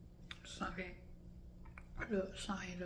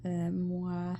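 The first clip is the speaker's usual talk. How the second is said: numb lip; 4 dB louder, slower than usual. Real, not acted. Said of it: "je sens pas ma lèvre".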